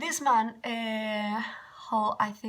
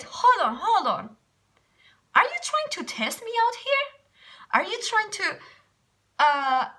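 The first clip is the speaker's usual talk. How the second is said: indignant retort; 4 semitones higher, 4 dB louder than usual. Retold or imitated. Retold indignant challenge to man.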